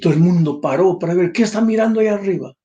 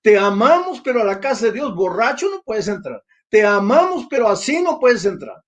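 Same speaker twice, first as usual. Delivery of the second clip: mock pious rejection; 5 semitones higher than usual. Mocking repeated church rejection.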